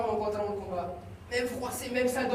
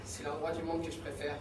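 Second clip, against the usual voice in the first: much softer, lower, hushed; dreamy murmur; 7 semitones lower, 13 dB quieter than usual. Acted. Son softly describes his favourite calm place. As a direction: lose yourself in a calm daydream.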